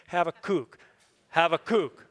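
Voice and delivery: "Habakkuk" as hah-vah-KOOK; last-syllable stress. Shown as a demonstration. Preacher leading the congregation to repeat, end-stressed. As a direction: punch the long KOOK ending of "Habakkuk". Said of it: "So say it with me".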